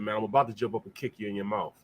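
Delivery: low, soft imitated menace; retold quiet threat. Linebacker threatening an opponent who kept talking, retold low quiet threat. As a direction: deliver the threat low and understated.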